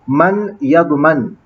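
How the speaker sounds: मन यज़मन said slowly, each word spaced out; slow emphasis. Shown as a demonstration. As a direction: spell out मन यज़मन slowly for the class. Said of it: "यज़मनु पढ़ना चाहिए या फिर यज़मन". (मन यज़मन धीरे-धीरे)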